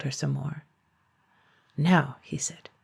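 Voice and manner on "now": whisper. Acted.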